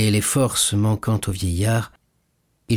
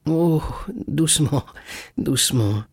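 put-on gentle smiling old man, pitch settling down; smiling restraint; 6 semitones higher than usual. A narrator's reading. Old father calming his excited son, smiling. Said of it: "dit le vieillard en souriant".

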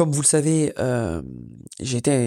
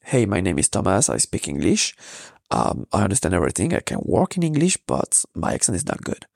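English in a French accent, pitched lower; 7 semitones lower than usual. Shown as a demonstration. Podcaster showing listeners his English as an example, French accent. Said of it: "j'ai toujours eu peur de mon accent".

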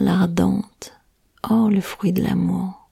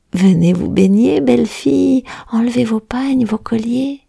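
fishermen calling; 4 semitones higher than usual. Acted. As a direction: lure the girls to bathe. Fishermen call the girls.

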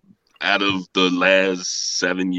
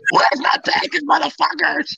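mock yell; slower than usual. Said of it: "you see Paul get out".

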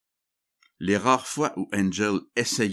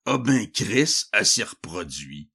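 snide; 3 semitones higher than usual. Acted. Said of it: "ne put s'empêcher de dire une vacherie".

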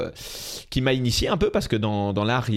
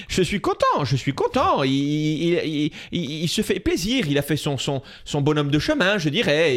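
put-on Corsican accent, pitched way up; hammed-up Corsican dad voice; imitating his Corsican father; 5 semitones higher than usual. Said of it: "je réponds avec mon père".

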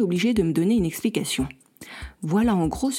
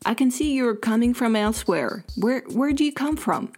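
higher-pitched English-speaking neighbour; lightly acted higher voice asking; neighbour's English line; 4 semitones higher than usual. A narrator's reading. Reads neighbour Nolan's English line.

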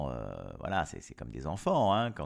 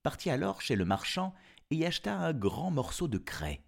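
put-on storyteller reading to children; story narration; 3 semitones higher than usual. Narrator telling of the wolf's trick, story narration. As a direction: tell it as a fairy tale, with lilting phrases.

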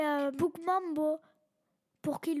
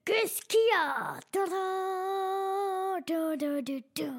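roaring tyrant king; 2 semitones higher, slower than usual. Pretend. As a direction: boom it out like a bold king. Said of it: "j'aurais fait".

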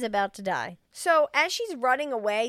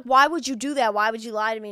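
acted angry reproach; 7 dB louder than usual. Acting man's reproach.

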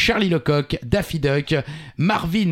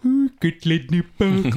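Joker impression; 4 semitones higher than usual. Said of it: "C'est le Joker".

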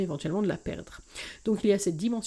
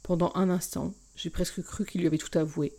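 expressive reading of a romance novel, first person; story narration. A narrator's reading. Podcast host reading a novel chapter aloud, expressive narration. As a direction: read the excerpt to podcast listeners, voicing each character.

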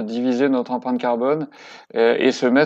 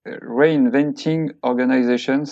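Reinventing Organizations in a tentative English accent, slowly; English accent attempt; slower than usual. Shown as a demonstration. Guest trying an English accent on the book title, slowly. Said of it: "je ne sais pas si j'ai le bon accent anglais".

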